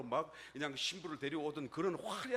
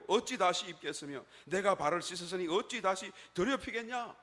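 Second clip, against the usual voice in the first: mildly raised, protesting reply; 여인의 대답; 4 semitones higher, 4 dB louder than usual. Acted. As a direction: answer back as the reluctant woman, a little higher. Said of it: "여인이 대답하는 거예요". (조금 높여 되묻는 여인의 항변)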